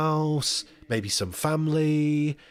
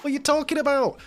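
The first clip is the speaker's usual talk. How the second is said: high-pitched mock incredulity; over the top; 11 semitones higher than usual. Volunteer objecting to recording on a phone, over the top. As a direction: act appalled, pitch climbing sharply. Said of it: "me being over the top".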